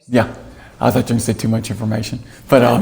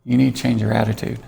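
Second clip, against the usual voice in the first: softer, calm and even, quoting the nurse; 5 dB quieter than usual. Retold or imitated. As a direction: quietly set him straight, unruffled. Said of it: "she very calmly said".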